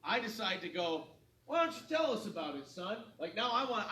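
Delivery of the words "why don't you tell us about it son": bartender voice. Retold or imitated. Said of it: "play bartender at this point".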